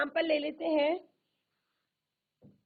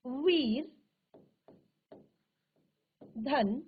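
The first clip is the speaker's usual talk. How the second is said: spelled slowly; slower than usual. Shown as a demonstration. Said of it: "teacher spelling out sandhi parts".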